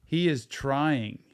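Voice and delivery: "he is trying" spoken slowly, every word weighted; slow emphasis. Shown as a demonstration. Therapist driving home the effort, slow and stressed. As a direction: spell out "he is trying" deliberately. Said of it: "Pay attention to Tryna".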